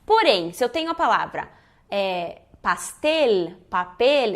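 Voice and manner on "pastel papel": "pastel" and "papel" ending on a tongued L; clear final L. Shown as a demonstration. Teacher introducing Spanish final L, clearly tongued endings. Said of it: "eu não posso fazer no final".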